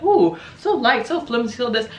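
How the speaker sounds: a hint of a gushing spectator; mock dainty onlooker. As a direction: lightly imitate people cooing at it. Imitating people who watch the sword.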